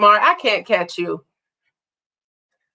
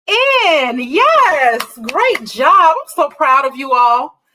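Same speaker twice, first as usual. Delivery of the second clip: excited praise; 5 semitones higher, 3 dB louder, slower than usual. Real, not acted. Praising children's right answer.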